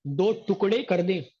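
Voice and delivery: a hint of arrogant Ravana defiance; defiant Ravana. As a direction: declare it like an unbending demon king. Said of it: "ये बोलता है".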